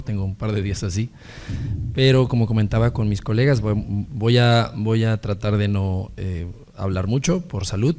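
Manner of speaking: raspy, worn-out sick voice; hoarse voice. Real, not acted. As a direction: speak hoarsely, voice strained by illness. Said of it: "una disculpa por esta voz de ultratumba".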